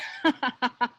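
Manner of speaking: booming monster laugh; big heavy laugh. Acted. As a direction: laugh big over your catch. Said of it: "laughs with his big and heavy voice".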